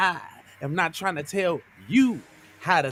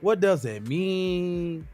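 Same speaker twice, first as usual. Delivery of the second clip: spoken word voice. Acted. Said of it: "that was my fake spoken word".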